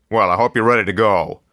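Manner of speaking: jolly newspaper boss welcoming the new man; effusive editor. A narrator's reading. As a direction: greet him like an old friend with big jolly warmth.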